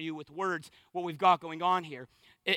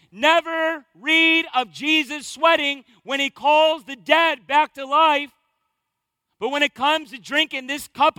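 building preacher's cry; 4 semitones higher, 6 dB louder than usual. Acted. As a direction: drive the refrain home at full force. Refrain builds to its peak.

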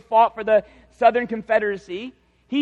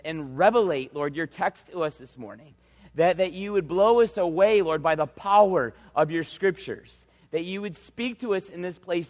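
earnest, subdued pastoral prayer; public prayer. Real, not acted. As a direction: lead the congregation in heartfelt prayer. Leads congregation in prayer.

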